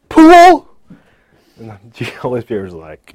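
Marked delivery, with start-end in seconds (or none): 0.1-0.7 high, loud "Pool?"; incredulous. Retold or imitated. Man amazed God's answer is about pool, high and loud. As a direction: squeak it in disbelief. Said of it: "I was like".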